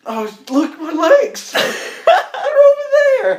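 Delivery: rising to a high, loud cry; comically aghast, climbing in pitch; dying doppelganger's outburst. Acted. Torn-apart doppelganger spots his legs.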